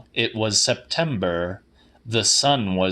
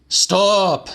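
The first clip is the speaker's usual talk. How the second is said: sharp command; 8 semitones higher, 4 dB louder than usual. A narrator's reading. Old man cuts her off.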